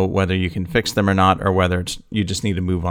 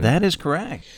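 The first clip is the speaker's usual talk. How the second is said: game show host; 8 semitones higher than usual. Pretend. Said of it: "It does feel like a game show".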